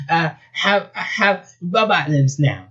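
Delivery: high, slow southern squeal; freaked-out southern squeal. Acted. Rabbit discovers her robot limbs, squealing. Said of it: "she squealed".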